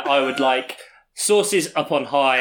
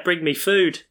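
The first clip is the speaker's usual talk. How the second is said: mock desperate shout; 2 semitones higher, slower than usual. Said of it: "At this point, I don't care".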